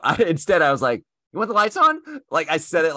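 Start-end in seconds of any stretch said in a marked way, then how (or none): 1.3-2.0 high, loud and condescending; douchey tone. Retold or imitated. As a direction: ask it like a smug jerk. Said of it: "like, in a douchey way".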